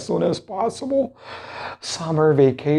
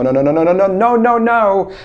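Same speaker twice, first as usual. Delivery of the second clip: emphatic no; 5 semitones higher, 4 dB louder, faster than usual. Acted. Emphatic reassurance to students.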